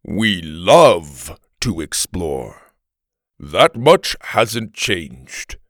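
very slow, forceful Viking voice; emphatic Viking. Acted. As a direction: correct them slowly, leaning hard on love. Viking corrects the past tense.

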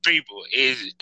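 talking through a swollen mouth; words thick from a swollen jaw. Real, not acted. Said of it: "my mouth is swollen. So now I sound like".

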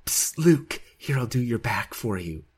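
a hint of a creepy whispery god; lightly voiced god in the shower. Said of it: "that's my God voice".

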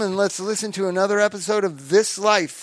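booming showman announcer voice; ringmaster. Pretend. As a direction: call the crowd in like a ringmaster. Showman intro to the podcast.

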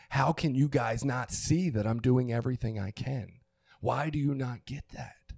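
pleading, frustrated demand to be understood; exasperated protest, stretched out at the end; retold exasperation. Father reliving his outburst at family, exasperated.

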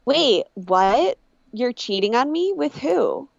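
put-on American accent, questioning; American accent, lightly mocking; imitated American accent. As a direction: mimic an actress slipping into American. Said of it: "starts talking in an American accent".

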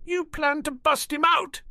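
high-pitched, astonished question; amazed exclamation. A narrator's reading. Harry turns to Regulus on working out the plan, amazed exclamation. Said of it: "he exclaimed".

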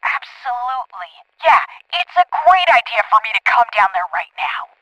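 dry, deadpan sarcasm; sarcastic. Acted. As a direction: say it sarcastically, meaning the opposite. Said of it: "Yes, I'm being sarcastic".

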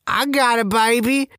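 high, loose rapper-style drawl; woozy mock rapper accent. Drugged patient brushing off the nurse in mock rapper accent. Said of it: "Think rapper type accent".

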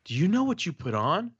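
put-on older daughter. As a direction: voice a girl confronting an adult. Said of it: "the older daughter comes up to me. She's like".

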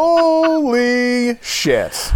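breathless, very slow and high; gasping out the words; hyperventilating. Real, not acted. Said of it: "I'm hyperventilating".

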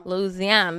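mock Louisiana accent, "Louisiana" said "Looz-ee-ANN"; local Louisiana accent. Host showing her co-host how locals talk, Louisiana accent. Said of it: "That's how they talk".

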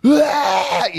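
high cheering shout; mock crowd roar. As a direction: cheer like the whole bar at once. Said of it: "Aí a galera fez".

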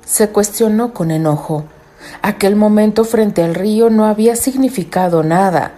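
measured storyteller reading; story narration. A narrator's reading. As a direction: read it like a novel.

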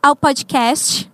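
ao podcast modelled slowly in Brazilian Portuguese; Portuguese teaching demo. Shown as a demonstration. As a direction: say ao podcast slowly for a learner to repeat. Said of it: "say a little part and then you repeat".

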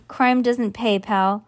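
ordinary delivery

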